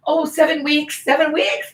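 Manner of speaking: mock sweet lie. Woman fooling a rude stranger, mock sweet. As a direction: chirp it back innocently.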